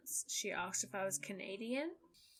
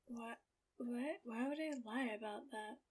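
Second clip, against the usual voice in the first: baffled hushed disbelief; 3 semitones higher, 7 dB quieter than usual. Retold or imitated. Baffled retold reply to customer.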